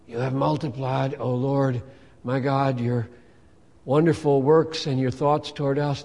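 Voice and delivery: lightly crackly, just-woken reading; crackly morning voice. Retold or imitated. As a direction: read it in bed, half-awake and crackly. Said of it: "in my crackly voice".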